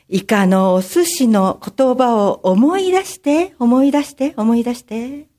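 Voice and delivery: lilting ladylike stage voice, fading echo at end; warning guide. Acted. Mysterious helper warning the girl about strangers, lilting and theatrical. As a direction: caution a child with theatrical concern.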